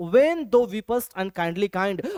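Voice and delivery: very slow, measured recital; slow poem reading. Shown as a demonstration. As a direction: read the verse word by word. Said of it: "और आगे वो कहते हैं".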